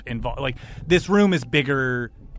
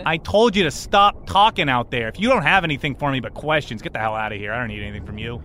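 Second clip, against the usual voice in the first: lightly voiced captain sending intruders away; irritated captain. Captain to questioners in his office, irritated.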